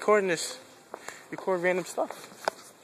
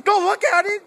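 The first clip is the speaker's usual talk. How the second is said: shouted warning; 11 semitones higher, 8 dB louder than usual. Real, not acted.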